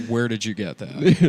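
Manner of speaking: as if admiring a trendy item; curious fan. Retold or imitated. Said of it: "now I'm like".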